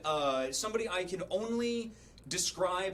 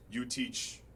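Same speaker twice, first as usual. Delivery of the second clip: gruff customer; 5 semitones lower, 5 dB quieter, slower than usual. Retold or imitated. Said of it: "he goes".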